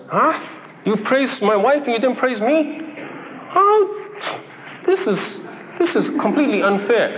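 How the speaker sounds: mock-indignant husband, pitch jumping up on how; huffy, wounded outrage, hammed up for the congregation; jealous husband. A husband whose wife got the praise, in mock jealous outrage.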